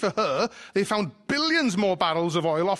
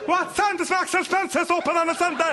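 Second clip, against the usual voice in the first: put-on higher North Wales accent, louder; North Welsh wife; 11 semitones higher, 3 dB louder than usual. Wife repeats her question to Alexa, thick North Welsh. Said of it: "wife trying to converse with Alexa".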